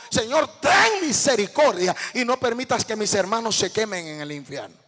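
a retold cry for mercy, loud at its peak; begging God out loud to spare the brothers. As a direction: call out to God for mercy, then drop away. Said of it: "empecé a clamar misericordia".

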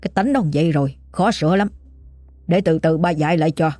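calm fatherly reassurance; low, steady voice. Acted. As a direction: settle her down in an even, unhurried tone. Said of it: "giọng trầm ổn".

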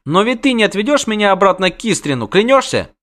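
put-on high-pitched child seeking a promise; anxious girl's plea. Princess fears being taken back, high pleading voice. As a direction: press him for an oath, voice high. Girl begs witcher for a promise.

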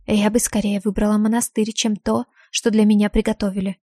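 ordinary delivery

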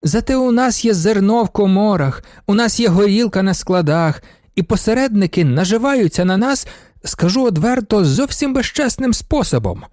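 petulant whimper of grievance; whining voice. A narrator's reading. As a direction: whine it like a wronged nobleman. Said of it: "говорив він далі плаксивим голосом".

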